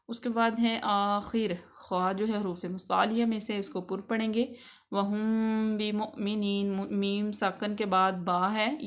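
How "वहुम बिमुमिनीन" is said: hide the meem at the lips in बिमुमिनीन; lip ikhfa. Shown as a demonstration. Teacher shows the lip ikhfa, slow recitation. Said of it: "ख्वाए शफवी होगा".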